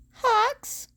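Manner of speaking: high call across the apartment. A narrator's reading. Izuku calling for Hawks through the apartment, loud. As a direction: shout his name from the window.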